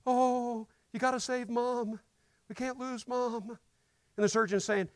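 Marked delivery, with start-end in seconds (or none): 0.1-3.6 slow, pleading family member; a touch of desperate begging. Retold or imitated. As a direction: plead with the surgeon to save her. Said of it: "They're begging him".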